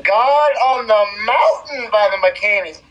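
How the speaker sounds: podcast host intro. Acted. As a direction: open the show like a broadcast. Hosts a podcast opening.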